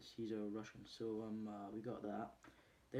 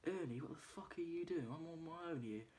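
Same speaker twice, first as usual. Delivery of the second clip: indignant complaint; 6 semitones higher than usual. Retold or imitated. Prime Time in the ring to Ernie, indignant. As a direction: imitate a put-out boxer calling for help.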